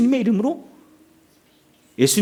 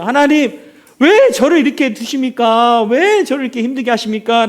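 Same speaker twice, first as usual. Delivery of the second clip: mock complaint; 3 semitones higher than usual. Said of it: "라고 하나님께 불평했어요".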